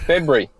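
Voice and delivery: FEBRUARY said as "Feb-yu-ry"; first R dropped. Shown as a demonstration. Australian guest shows the host, February with first R dropped. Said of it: "leave the first R out of it".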